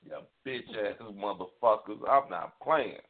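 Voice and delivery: heated, cursing rant at the culprits; a real angry rant; angry tirade. Real, not acted. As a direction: vent your fury in a long tirade. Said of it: "That was my tirade".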